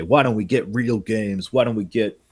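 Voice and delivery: mock whiny gamer. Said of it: "shout about and say".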